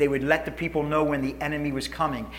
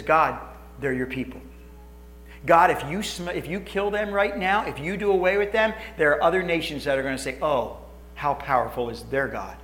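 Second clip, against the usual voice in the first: soft pleading Moses; 2 semitones lower, 4 dB quieter than usual. Acted.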